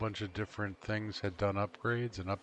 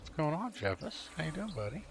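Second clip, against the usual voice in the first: pet talk; 8 semitones higher than usual. Real, not acted. Greeting the pet Jeffus.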